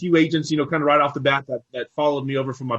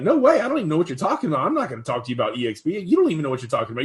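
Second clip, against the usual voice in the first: mock skeptical agents; faster than usual. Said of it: "agents were looking at me like".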